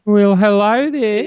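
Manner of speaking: high, loud, slow Kiwi greeting; hammed-up New Zealand accent, vowels stretched; put-on Kiwi accent. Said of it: "not with that accent".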